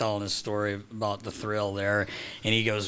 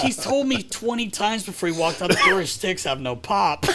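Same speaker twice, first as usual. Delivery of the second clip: higher, louder, laughing through words; laughing retell; 9 semitones higher, 4 dB louder than usual. Retold or imitated. Broadcaster retelling teammate's complaint with laughter. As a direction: giggle out the tattle.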